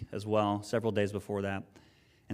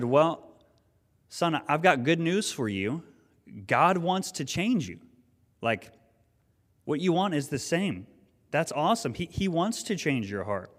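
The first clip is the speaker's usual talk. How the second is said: excited; 5 semitones higher than usual. Retold or imitated. Father excitedly tells son good news.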